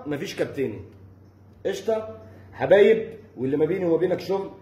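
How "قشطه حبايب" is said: slow, higher mocking question; drawn-out mock sweetness; sarcastic taunt. Real, not acted. Taunting the rival player, slow and sarcastic.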